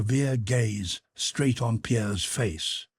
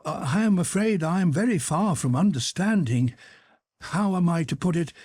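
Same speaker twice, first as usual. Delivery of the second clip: higher-pitched, hesitant courtesy; smiling, wavering; 6 semitones higher than usual. A narrator's reading. Pierre answering the Freemason, smiling and wavering. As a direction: feel for the words apologetically. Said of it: "smiling and wavering between".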